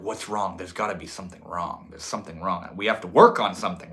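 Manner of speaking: low, hushed anxious fretting; imitating someone sure that trouble is lurking; mock worry. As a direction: fret under your breath, then build. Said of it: "it's like you're like".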